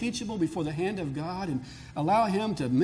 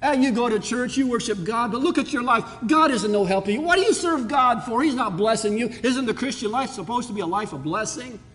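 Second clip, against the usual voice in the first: higher, louder taunting voice; mocking doubters; 4 semitones higher, 4 dB louder than usual. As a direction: taunt the believer with scorn. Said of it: "the psalmist did, who said".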